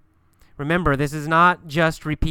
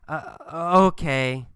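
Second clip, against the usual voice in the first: hesitant. Acted.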